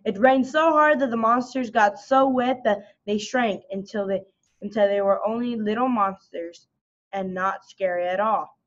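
usual speaking voice

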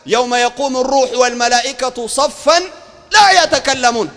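slow, emphatic verse recitation; measured, forceful holy text; Quran recitation. Acted. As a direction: declaim scripture in stretched phrases.

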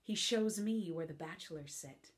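playful mocking stage speech; lively comic verse; witty Beatrice monologue. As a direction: tease the idea of a husband.

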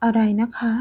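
breathless whispered disbelief; stunned whisper. Acted. Young wife hearing the pregnancy news, whispering in shock. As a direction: gasp the question out under your breath.

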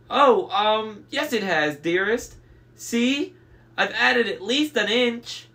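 high, flustered falsetto bride; very high fake bride voice. A narrator's reading. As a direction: placate the monster in falsetto. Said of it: "in his falsetto voice".

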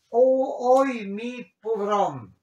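a high, loud wailing O, then mi pobrón; mock lament. Shown as a demonstration. Teacher hamming up a self-pitying cry for the class. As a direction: wail like a man pitying himself. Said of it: "pobre hombre".

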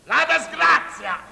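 bingo caller. Acted. Tombola smorfia meaning called back.

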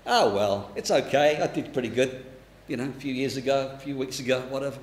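low, soft, shrugged-off self-satisfaction; complacent. Acted. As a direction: act out complacency, letting it fade away.

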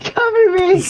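yelling. Real, not acted. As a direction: shout it over gunfire. Medic calling for cover under fire.

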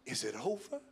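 low, soft murmured question; hushed, doubting question; under the breath. Acted. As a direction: murmur it privately, rising at the end. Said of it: "you're whispering under your breath".

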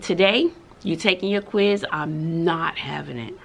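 low, firm teacher voice. Retold or imitated. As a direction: drop the voice, lay down the law. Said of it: "my voice got a little deeper".

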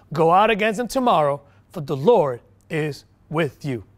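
emphatic Bible reading with weighted key phrases; scripture reading. Acted. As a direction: proclaim the passage to a congregation. Reads scripture aloud to congregation.

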